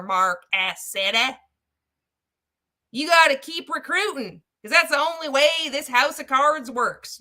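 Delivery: hammed-up folksy prospector rant; mock prospector. Prospector scolding Mark about pyramid schemes, hammed-up. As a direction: drive the point home as a mock prospector.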